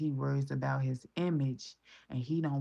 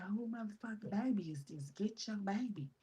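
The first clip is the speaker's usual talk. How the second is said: mock angry Keisha; 6 semitones higher, 3 dB quieter than usual. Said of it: "she would be like".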